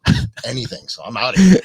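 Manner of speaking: mock a fed-up bandmate and crack up laughing; laughing mock exasperation. Teasing bandmate about quitting the newbies, laughing mock exasperation. Joking imagined quote of experienced bandmate.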